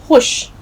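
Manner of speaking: खुश said as khush, no v sound; खुश without any vao; silent vao. Shown as a demonstration. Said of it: "हम जब पढ़ेंगे इस लफ्ज़ को". (खुश, वाव की आवाज़ नहीं)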